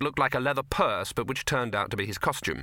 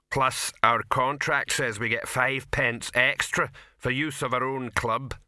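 troll voice; 2 semitones higher, slower than usual. Acted.

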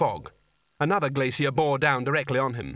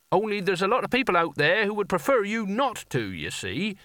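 desperate; 6 semitones higher than usual. A narrator's reading. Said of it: "said Nigel desperately".

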